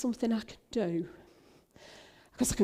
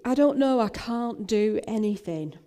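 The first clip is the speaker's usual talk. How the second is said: raised, protesting helplessness; throwing up arms; 3 semitones higher, 4 dB louder than usual. Retold or imitated. Disciples faced with feeding the crowd, helpless protest. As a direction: protest as if giving up on the task. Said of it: "throw up their arms and say".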